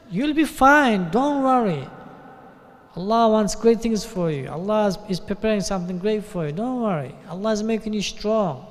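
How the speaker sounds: a touch of confident reassurance; with certainty. Retold or imitated. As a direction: promise it like you know. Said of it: "saying it with certainty".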